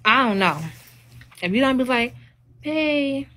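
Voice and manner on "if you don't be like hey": light, meek sweet-talk, pitched up; sweet feminine voice. Shown as a demonstration. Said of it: "talk sweet to your man".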